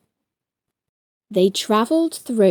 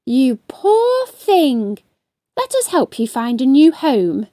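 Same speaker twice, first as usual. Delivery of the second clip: tender. Acted. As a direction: comfort the little crab gently. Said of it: "said Luna".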